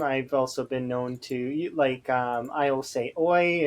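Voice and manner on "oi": short British "oi", slightly raised; attention-getting oi. Shown as a demonstration. Streamer shows how they get someone's attention, British call. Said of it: "trying to get someone's attention".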